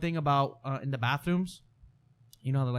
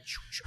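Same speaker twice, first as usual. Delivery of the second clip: short whooshing flush noises; quick pair of flush sounds; imitated toilet flushes; 12 dB quieter than usual. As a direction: mimic toilets flushing in turn. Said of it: "all the toilets just started flushing".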